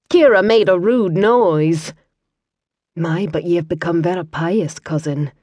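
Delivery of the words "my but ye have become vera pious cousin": soft, dry Scots teasing. Acted. Kira teases her monk cousin in a soft dry Scots voice. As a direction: needle her pious cousin.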